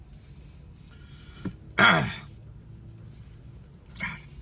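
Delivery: dry coughs; coughing. Real, not acted. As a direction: keep coughing. Still choking on taquito.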